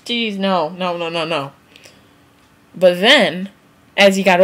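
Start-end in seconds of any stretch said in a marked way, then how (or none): 0.1-1.5 mock whiny teen. Teen actor refusing, mock whimpering whine. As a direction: whine no like a sulky kid. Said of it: "he was like".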